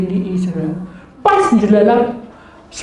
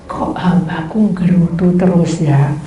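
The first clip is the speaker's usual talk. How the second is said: God's reproach; 4 semitones lower, slower than usual. Retold or imitated. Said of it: "Tuhan bilang".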